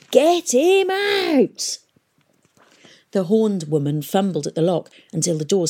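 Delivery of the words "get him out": high, slow, loud scream; screaming order. A narrator's reading. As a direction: bellow the order. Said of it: "screamed Peavy".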